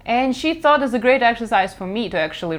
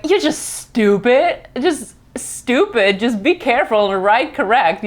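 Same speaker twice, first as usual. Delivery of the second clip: dismissive scolding; 3 semitones higher than usual. Retold or imitated. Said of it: "and they will be like".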